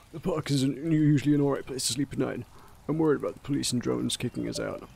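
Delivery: lightly voiced hobo, no French accent. Homeless man on sleeping in the park, lightly voiced hobo. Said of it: "go back to my hobo voice".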